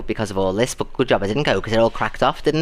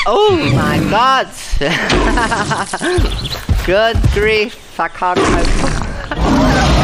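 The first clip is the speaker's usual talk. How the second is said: high, loud shrieking laugh, slowed right down; overwhelmed laughter; 9 semitones higher, 6 dB louder, much slower than usual. Real, not acted. Reacting to Angie's big gift, shrieking with laughter. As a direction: laugh till you can't breathe.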